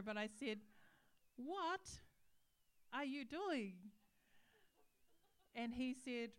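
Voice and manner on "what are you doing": raised, slightly louder reproach; mild mock outrage; retold indignant challenge. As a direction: act out confronting someone. Retold angry confrontation with barber.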